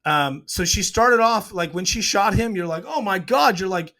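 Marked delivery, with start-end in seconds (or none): 2.9-3.6 high-pitched mock gasp of shock; acted-out alarm, pitched up; retold shock. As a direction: react like a stunned viewer. Viewer's shock at the shooting.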